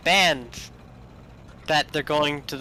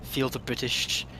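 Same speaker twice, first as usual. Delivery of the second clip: put-on low, soft British accent; mock-solemn quiet British; getting British; 3 semitones lower, 4 dB quieter than usual. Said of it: "gotta get British again".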